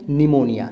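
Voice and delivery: निमोनिया said as nimonija, the p silent; silent p pronunciation. Shown as a demonstration. Teacher showing students the silent p, a clear nimonija. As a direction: start निमोनिया straight on the n, no p sound. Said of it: "पी silent".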